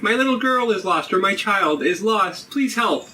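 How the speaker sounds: high, pleading housewife voice; a distraught housewife begging for help; 1950s housewife. Acted. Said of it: "in the voice of a housewife".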